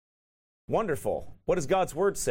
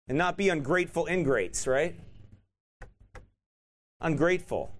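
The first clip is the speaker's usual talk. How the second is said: feisty. Real, not acted. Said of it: "I sound kind of feisty about that".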